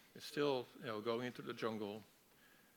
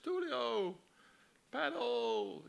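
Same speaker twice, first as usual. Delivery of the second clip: loud, high, drawn-out warning call; acted high-pitched yelling; urgent shout; 13 semitones higher, 6 dB louder, much slower than usual. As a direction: holler the name and command across water. Linda shouts instructions from afar.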